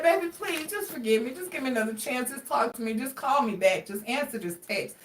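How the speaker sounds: hushed pleading fading to almost nothing; mock begging. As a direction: beg pitifully, fading away. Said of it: "they're like".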